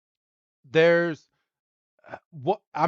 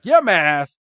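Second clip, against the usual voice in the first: a Pokemon shouting its own name, louder; Pokemon cry; 3 semitones higher, 8 dB louder than usual. Acted. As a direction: cry the name out like a little monster.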